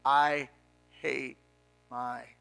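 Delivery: low, slow, pained confession; pitiful. Retold or imitated. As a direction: drag the words out, low and pitiful. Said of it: "with the most pitiful look".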